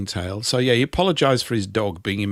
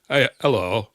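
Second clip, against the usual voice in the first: imitating a Yorkshireman's greeting; lightly put-on Yorkshire accent. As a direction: do a Yorkshire local saying hello. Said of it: "where's that accent from".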